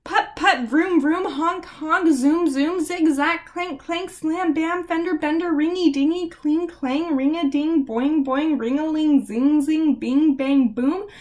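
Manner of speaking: teacher firing off sound words on one breath; breathless rhyme rattle. Acted. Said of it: "took a deep breath".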